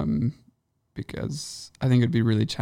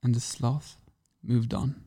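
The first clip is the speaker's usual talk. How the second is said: lightly voiced nature documentary narrator; sloth narration voice. Shown as a demonstration. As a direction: narrate a sloth like a wildlife film. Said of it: "give us your sloth narration voice".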